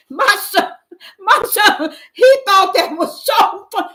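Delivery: high, loud, helpless laughter through the words; laughing hard. Real, not acted. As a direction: barely get it out for laughing. Telling of son's laughing fit.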